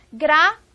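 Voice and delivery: gratuito in three pieces, gra, tui, to; loud, separated gra - TUI - to; syllable by syllable. Shown as a demonstration. Teacher asks which syllable is strongest, separated syllables. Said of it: "Qual é a sílaba mais forte?".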